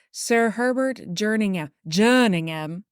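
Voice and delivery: badly faked British accent, savouring the name. Podcaster retrying the father's quote, bad British accent. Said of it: "with a really bad British accent".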